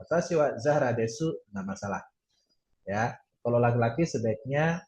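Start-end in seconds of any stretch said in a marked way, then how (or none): 0.0-1.3 desu with the final u sounded; u pronounced. Shown as a demonstration. Teacher showing what a female student may say, u pronounced. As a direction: say "de-su" at the end of desu. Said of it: "Tapi kayak Zahra, boleh".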